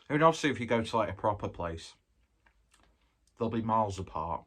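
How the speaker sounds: talking while chewing; words round a bite of pizza; mouth full. Real, not acted. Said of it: "Don't talk with your mouth full".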